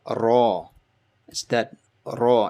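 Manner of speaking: ra with a tapped r like butter; flapped r. Shown as a demonstration. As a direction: flap the r in ra. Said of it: "R is kind of like flapping".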